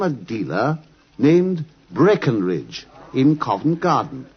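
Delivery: measured storyteller's voice, recounting the night's walk; story narration. A narrator's reading. Watson recounting to the audience the walk to Covent Garden, in narration voice. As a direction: paint the cold London streets for the listener, steadily.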